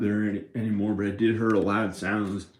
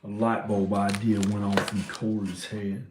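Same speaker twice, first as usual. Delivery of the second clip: first country accent. Shown as a demonstration. Vlogger voicing someone a friend knows, country accent. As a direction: say it with a country twang. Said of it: "those are two different country accents when I said light bulb idea".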